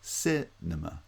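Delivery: CI-nema, slow, with the weight on CI; stress on first syllable. Shown as a demonstration. Teacher showing cinema's stress on the first syllable only, slow first-syllable stress on Cinema. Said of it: "has stress on the first syllable only".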